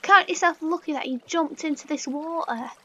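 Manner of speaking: loud gloating aha, then lecturing; mock villain scolding. Gamer gloating at a sheep that jumped down, mock villain. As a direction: gloat over the silly animal like a villain.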